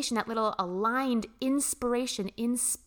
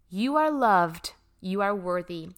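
sincere affirmation. Acted. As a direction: tell them they are loved, meaning every word. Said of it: "I'm gonna say it until everyone gets it".

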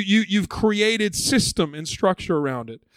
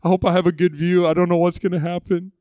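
lightly acted eager chatter, drawing out the big words; a touch of giddy anticipation; excited festivalgoer. Festival crowd awaiting the priest's water, mildly excited chatter. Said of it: "they're all getting excited".

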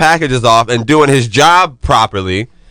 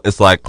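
imitating snorting sniff. Shown as a demonstration. Demonstrating his asthma noise to the hosts, exaggerated snort. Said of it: "I make a really shitty noise".

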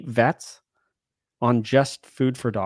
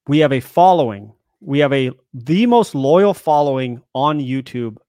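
wrestling promo; 4 dB louder than usual. Pretend. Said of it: "I'm gonna do a real promo".

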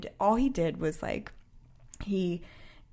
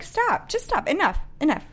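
exasperated outburst; 7 semitones higher than usual. Retold or imitated. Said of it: "I was like".

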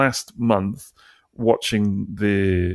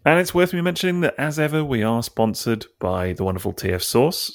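radio jingle voice. Pretend. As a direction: sell it like an old radio jingle. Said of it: "I was really doing the old, uh, radio jingle voice".

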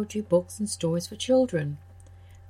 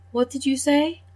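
higher put-on cow voice asking; puzzled cow; 6 semitones higher, 4 dB louder than usual. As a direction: cow not understanding the bray. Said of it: "Then the cow said".

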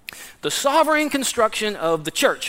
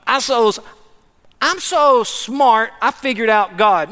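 puffed-up bragging, hammed a little; mock a smug know-it-all; mock boastful. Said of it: "puffing up".

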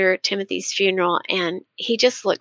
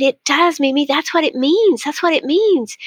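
put-on excited child; 6 semitones higher than usual. Grandson agreeing with grandmother about heaven, excited. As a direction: declare it with joyful certainty. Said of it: "And he was so excited".

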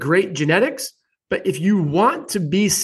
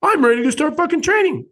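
mocking cocky trainer; 10 semitones higher than usual. Host mocks certified newbie trainers, high cocky voice. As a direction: mimic a cocky new trainer, pitched up. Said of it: "They go out there and say".

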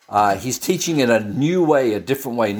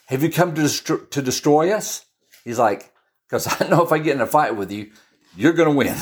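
false bravado; 3 semitones higher, faster than usual. Acted. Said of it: "a false show of strength".

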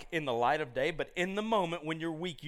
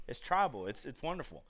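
normal talking voice

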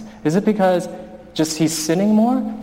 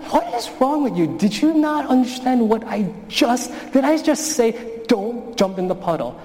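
higher, exasperated scolding of a son; a father scolding, pitched up and exasperated; raised voice; 6 semitones higher than usual. Retold or imitated. Father scolding his son over the puddle, raised exasperated voice. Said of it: "I am raising my voice".

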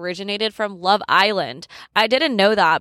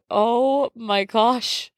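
laughing; 2 semitones higher, much slower than usual. Real, not acted. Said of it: "I can't even say this one seriously".

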